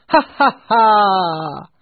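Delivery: loud, high belly laugh; hearty laugh. Acted. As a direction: roar with laughter. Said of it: "laughed a voice he knew well".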